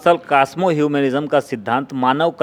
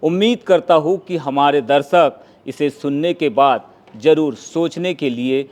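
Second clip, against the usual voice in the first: measured, formal outro read; formal programme-closing announcement; presenter sign-off. Acted. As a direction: close the show like a presenter, phrase by phrase. Presenter reads the show's sign-off.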